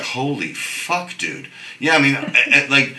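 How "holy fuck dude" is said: hushed awe. Retold or imitated. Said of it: "you would be like".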